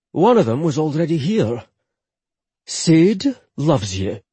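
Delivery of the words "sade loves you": slow, solemn reassurance. Acted. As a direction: say it slowly and gravely. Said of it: "Rory said solemnly".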